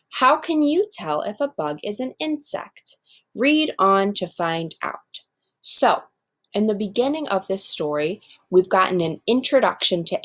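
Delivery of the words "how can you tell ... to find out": expressive classroom read-aloud; reading to children. Acted. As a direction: read it out like a picture book for the class. Teacher reads text aloud.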